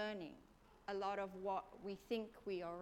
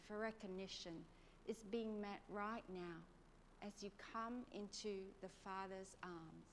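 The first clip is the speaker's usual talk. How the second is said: guided meditation. Acted. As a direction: gently guide them inward, breath by breath. Leads a guided prayer meditation.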